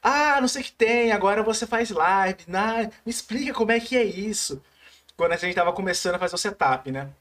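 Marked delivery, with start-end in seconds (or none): 0.0-4.6 leve imitação do pai curioso, um pouco mais agudo; pai questionando. Retold or imitated. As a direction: imite de leve um pai pedindo explicação. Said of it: "ele tava falando assim". (pai intrigado, em tom de cobrança leve)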